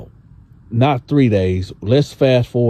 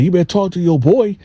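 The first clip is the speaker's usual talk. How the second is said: Gene voiced; 7 semitones higher, faster than usual. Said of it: "So he like".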